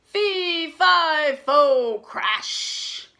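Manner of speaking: giant's chant broken by the fall; hammed-up crash; giant cut off. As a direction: chant then a whispered crash. Giant falls mid-chant.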